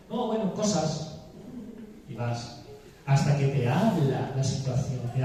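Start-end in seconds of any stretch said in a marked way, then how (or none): 0.1-1.2 amigo reticente. Acted. Amigo reacio, voz actuada.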